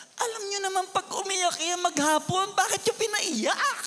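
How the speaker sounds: high, exasperated scolding. Retold or imitated. Pastor scolding the youth for making her cry. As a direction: tell them off, stretching the last words. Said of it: "Sabi ko sa kanila".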